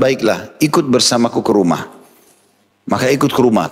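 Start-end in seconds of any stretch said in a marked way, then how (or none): 0.0-2.0 calm reply. Retold or imitated. Prophet answering the rude Bedouin, calm and gentle. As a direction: soothe the rude man, no edge at all. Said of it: "dengan sangat tenang mengatakan".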